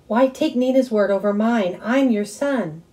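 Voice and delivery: high, loud hurt yelling, slowing at the end. A narrator's reading. Son yelling at mom, loud and wounded. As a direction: shout it, then lean on the last words. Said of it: "I was yelling now".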